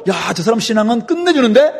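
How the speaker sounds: a touch of impressed surprise, acted; mildly amazed. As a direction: mimic an onlooker mildly marvelling. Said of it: "사람들이 깜짝 놀랄 정도로". (살짝 감탄하며 놀란 흉내)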